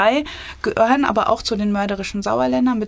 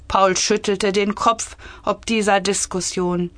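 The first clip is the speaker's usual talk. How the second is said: measured, clearly articulated story reading; story narration. A narrator's reading. Author reading her cabinet satire, measured story narration. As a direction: read the tale aloud with composure.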